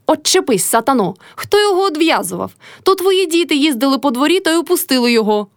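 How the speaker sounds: high angry shout at the daughter-in-law; shouting old woman. A narrator's reading. Old mother-in-law yells at Motrya, high angry shout. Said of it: "крикнула Кайдашиха".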